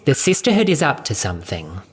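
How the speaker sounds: brisk, irritated correction; impatient mistress; testy. Acted. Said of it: "reminded him testily".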